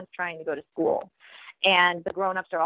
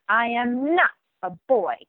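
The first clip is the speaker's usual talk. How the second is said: mild read-aloud yell; 3 semitones higher than usual. Acted. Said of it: "yells Buddy".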